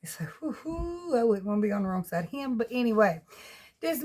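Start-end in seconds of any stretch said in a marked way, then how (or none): 0.4-1.1 soft, high, drawn-out howl; imitated dog howl. Owner shows how her big dog sounds outside, mock howling. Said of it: "That's a scary sound right there".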